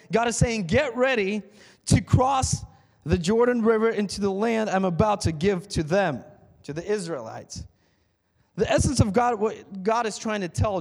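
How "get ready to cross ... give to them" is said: loud, high proclamation; God's command. Acted. God ordering Joshua to cross, loud proclamation. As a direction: call them over the river.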